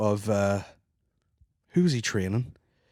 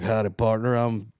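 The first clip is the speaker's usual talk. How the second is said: put-on Texan accent. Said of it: "he almost takes the accent".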